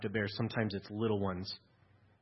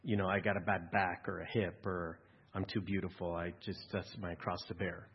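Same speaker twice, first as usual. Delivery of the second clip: lower, softer self-pitying whine; mock the martyr; mock complaining; 4 semitones lower, 5 dB quieter than usual. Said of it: "You'll hear people go".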